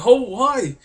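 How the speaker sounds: high, loud mock-excited cry; imitated excited crowd. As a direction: exclaim it high like a starstruck crowd. Imitating everyone greeting the star.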